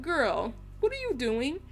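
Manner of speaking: imitated mom's incredulous question, lifting high; lightly voiced startled mom. Mom to daughter who ran across, mild disbelief. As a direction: question her like a baffled mother, lightly acted.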